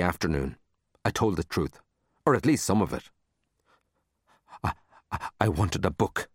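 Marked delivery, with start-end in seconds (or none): 4.6-6.3 halting, nervous stammer; shaky voice. Acted. Caught child confessing to the librarian, shaky. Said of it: "in a shaky voice".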